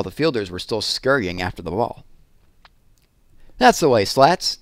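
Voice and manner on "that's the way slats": loud, slow cheering yell; fans yelling. A narrator's reading. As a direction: cheer him on from the stands. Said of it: "yelled the fans".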